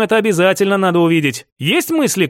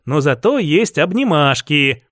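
lower, slow, cosy offer; playful tender; 4 semitones lower than usual. Acted. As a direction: coax her with it. Offering hugs to fiancée.

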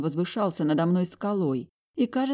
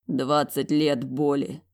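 sighed out; 2 semitones lower, slower than usual. Acted. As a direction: breathe it out heavily, slowly. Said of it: "выдохнул он".

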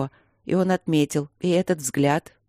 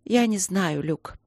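unhappy tone; 4 semitones higher, slower than usual. Acted. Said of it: "ответила она несчастным тоном".

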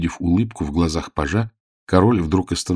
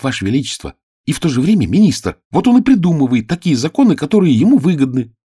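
heated page; 6 semitones higher, 4 dB louder than usual. Acted. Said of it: "горячо сказала".

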